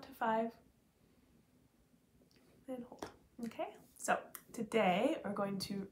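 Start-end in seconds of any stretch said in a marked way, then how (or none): 2.7-3.0 soft breathy hold cue; whispering. Real, not acted.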